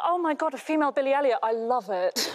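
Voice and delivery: quick, gushing mock southerner; mock a starstruck Londoner, fast; lightly voiced gushing Londoner. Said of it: "they're like".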